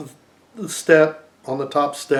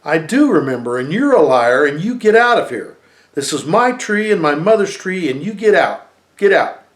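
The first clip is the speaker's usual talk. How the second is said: put-on a boy shouting high and loud, voice pushed up; loud, high desperate child's shout; 4 semitones higher, 7 dB louder than usual. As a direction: yell it at them, memory bursting out. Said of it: "shouting at them".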